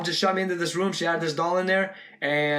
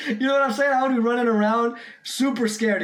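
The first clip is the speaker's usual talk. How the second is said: laughing; 7 semitones higher than usual. Real, not acted. Still laughing after mock scream.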